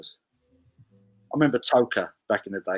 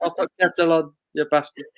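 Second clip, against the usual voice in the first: put-on Yorkshire, a touch higher; mock Yorkshire accent; 7 semitones higher than usual. Mocking his Yorkshire friends, broad Yorkshire impression. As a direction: lay on the Yorkshire like a southerner. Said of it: "He doesn't say the bastard".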